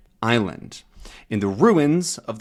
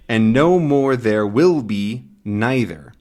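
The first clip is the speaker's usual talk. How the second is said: put-on Scottish accent; 4 dB louder than usual. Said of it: "where the accents are a bit thick".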